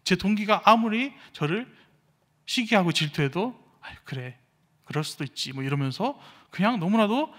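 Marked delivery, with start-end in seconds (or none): 3.8-5.5 easygoing shrug-off. Retold or imitated. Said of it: "편안하게 모든 것을 다 그냥 흘러보내는".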